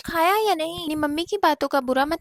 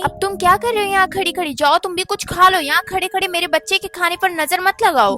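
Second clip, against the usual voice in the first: sharp, louder scolding of the maid; 2 semitones higher, 5 dB louder than usual. Acted. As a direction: snap at the servant with contempt. (नौकरानी को डाँटती सौतेली माँ, तीखी आवाज़ में)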